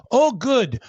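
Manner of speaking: hint of alarm, slowing on the car on fire; mock panicked plea. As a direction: beg for help in a hammed-up panic. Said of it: "And he goes".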